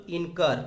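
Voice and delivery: इनकर with the weight on कर; इनकर, stressing its last syllable; stress on second syllable. Shown as a demonstration. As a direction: lean on the final कर in इनकर. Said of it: "कार में अपन ज़्यादा stress दे रहे हैं".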